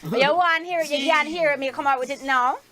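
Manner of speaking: showing off a Jamaican accent. Shown as a demonstration. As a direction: put on a playful Jamaican accent on demand. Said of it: "I do my Jamaican accent".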